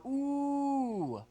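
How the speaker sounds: high ooh held in the mouth; sound stuck in the mouth. Shown as a demonstration. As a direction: keep the ooh trapped behind the tongue. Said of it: "All the sound is stuck in the mouth".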